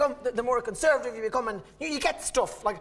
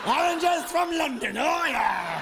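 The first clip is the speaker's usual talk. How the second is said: put-on drunken cheer; 3 semitones higher, slower than usual. Drunk friend celebrating oranges.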